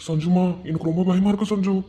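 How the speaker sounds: frightened, near tears; scared and tearful. Acted. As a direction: plead with her through fear. Worried boyfriend, crying heard.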